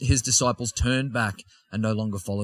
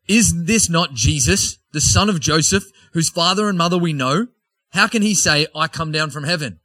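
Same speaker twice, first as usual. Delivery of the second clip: sceptical grumbling crowd; 4 semitones higher, 4 dB louder than usual. Acted. Jews doubt Jesus's claim, scoffing loud question. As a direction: scoff at him, disbelieving.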